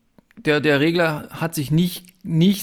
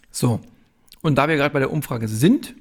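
talking with a mouthful of chocolate; smacking lips between words; chewing while talking. Real, not acted. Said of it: "verkündest du uns jetzt schmatzend".

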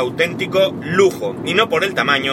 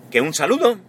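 voice giving out; 4 semitones higher than usual. Real, not acted. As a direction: voice cracking on the goodbye. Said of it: "¡ay, que se me va la voz!".

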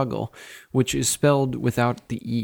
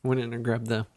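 chewing while talking. Real, not acted. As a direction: mouth full of pear. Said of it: "I'm chewing on a pear as".

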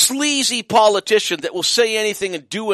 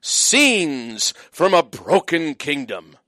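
slow, solemn headline read; mock dramatic headline; 2 semitones lower, much slower than usual. Reading the National Post headline aloud, slow mock gravity. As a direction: intone it like a doom headline. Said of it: "Front page, National Post".

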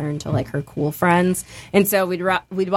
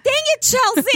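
high, exasperated "Dang it"; mock exasperation; 3 dB louder than usual. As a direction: groan it like everyone's fed up. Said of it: "Everyone's like".

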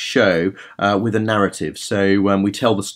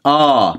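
projected ah; 2 semitones higher, 4 dB louder than usual. Shown as a demonstration. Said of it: "project the sound".

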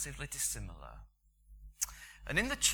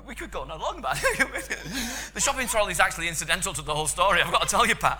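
laughing; 9 semitones higher, 11 dB louder than usual. Real, not acted. Laughing through shopping trolley aside.

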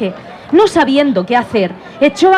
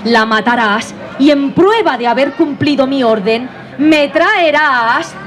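queen voice; 4 semitones higher than usual. Acted. Queen orders the hunter.

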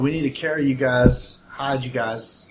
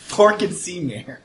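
bad German accent; 5 semitones higher, slower than usual. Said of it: "really bad German".

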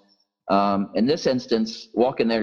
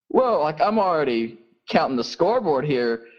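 high, stunned aside; retold amazement; 5 semitones higher than usual. Pastor retelling his stunned reaction to Mike, lightly high. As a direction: act out being floored by the question. Speaker amazed at Mike's question.

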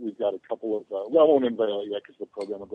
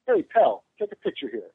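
Estrada calling out; 7 semitones higher than usual. Retold or imitated. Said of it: "waves his hand in front of me and goes".

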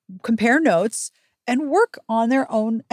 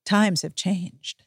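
drawn out slowly, a touch ironic; slow quoted phrase; 3 semitones lower, much slower than usual. Retold or imitated. Quoting the best friend's advice, slow and ironic. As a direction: lean on each word slowly with irony.

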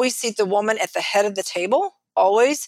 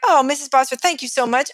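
higher, mock-grateful farewell; effusive pool guy; 4 semitones higher than usual. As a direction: lightly imitate an oblivious, over-friendly salesman. Imitates oblivious pool guy saying goodbye.

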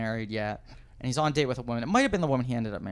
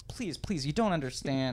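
pleading; 3 dB quieter than usual. Retold or imitated. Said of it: "the ramp up of the pl".

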